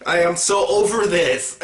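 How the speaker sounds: mock weary eye-roll; over it. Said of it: "and I was like".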